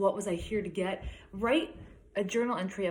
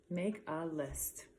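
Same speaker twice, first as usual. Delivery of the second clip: whispered title; 3 semitones lower, 8 dB quieter, slower than usual. Acted. Reading the book title aloud.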